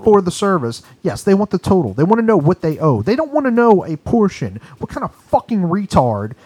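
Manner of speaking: real exasperation, voice climbing; heated rant. Real, not acted. Heated rant about hidden fees.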